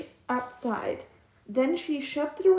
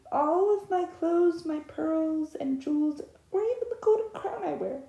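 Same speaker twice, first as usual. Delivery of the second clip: eager princess; 4 semitones higher than usual. Acted. Princess offers treasures.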